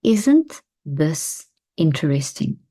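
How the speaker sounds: calm demo phrase; calm, slow phrase. Shown as a demonstration. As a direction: say it slowly and evenly to steady yourself. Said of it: "Try saying this phrase".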